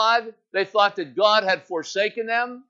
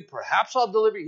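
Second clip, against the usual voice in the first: quick, offhand "perhaps I'll deliver you"; doubtful maybe; faster than usual. Shown as a demonstration. Pastor mocking a half-promise, quick and offhand. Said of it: "He's not saying".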